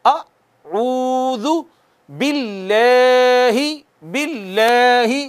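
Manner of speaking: अऊदु drawn out slowly, lips rounded on the u; slow tajweed chant of अऊदु with rounded lips; Quranic recitation. Shown as a demonstration. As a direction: recite अऊदु slowly, stretching the first vowel. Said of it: "मामूली सा".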